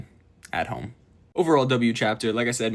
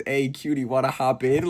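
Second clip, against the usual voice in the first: a smooth mock flirt with a changed voice; flirty guy; 4 semitones higher, 3 dB louder than usual. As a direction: lean in and tease the fan. Otoya flirting with fans.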